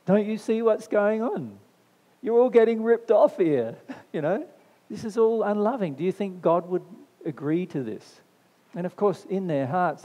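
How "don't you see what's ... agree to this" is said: loud, high public outburst, easing at the end; indignant raised-voice rebuke, retold; re-enacted yelling. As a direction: yell it out to the crowd in protest. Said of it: "yelled out to everybody".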